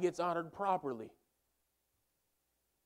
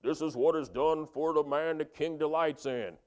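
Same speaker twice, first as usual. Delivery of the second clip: mock herald holler; 5 dB louder than usual. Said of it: "hollering at the top of his lungs".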